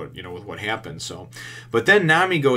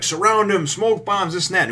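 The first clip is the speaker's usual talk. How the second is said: much higher, louder command; rally the crew to surround him; barked order; 10 semitones higher, 5 dB louder than usual. Retold or imitated. Arlong orders his men to surround Usopp, loud command.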